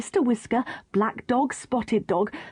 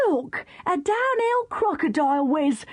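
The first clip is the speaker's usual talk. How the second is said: exclaiming; 7 semitones higher than usual. Acted. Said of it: "exclaimed the bandmaster".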